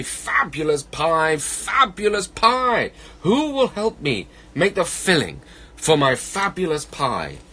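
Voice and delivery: high, drawn-out calling lament; a hungry bear sighing out his plea, slowly. Acted. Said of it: "he said with a sigh".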